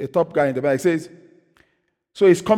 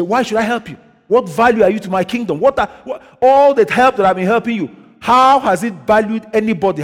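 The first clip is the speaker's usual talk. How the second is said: raised, higher divine rebuke; voice from above; 4 semitones higher, 4 dB louder than usual. Retold or imitated. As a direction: imitate God challenging him with growing force. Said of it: "heard almost like audience from his side".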